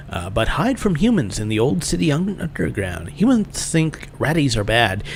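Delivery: lightly voiced rat-man, lilting up and down; humanoid rat shopkeeper. Ratty explaining his people to a human, lightly voiced rat creature. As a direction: play a quaint ratty merchant, lightly.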